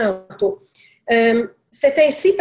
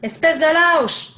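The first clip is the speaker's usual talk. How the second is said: angry; 5 semitones higher, slower than usual. Retold or imitated. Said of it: "Là, il se fâche".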